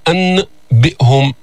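أنبئهم with a held n, then a break before b; أنبئهم as ann, then bi'hum; laboured clear n. Shown as a demonstration. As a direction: force a full n in أنبئهم before closing lips. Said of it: "هذا عسير".

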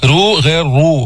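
two contrasted takes of رو, thick r against thin r; teacher's contrast of رو sounds; heavy versus light ra. Shown as a demonstration. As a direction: set a dark رو against a light one. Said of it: "يعني مفخمة".

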